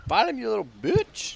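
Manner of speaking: loud, high-pitched command; shouted order. Acted. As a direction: yell orders at a cowardly sidekick. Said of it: "I said".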